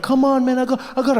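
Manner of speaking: high, urgent straining voice; pleading body. Retold or imitated. Body begging comic to let it vomit, urgent pleading. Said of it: "My body was like".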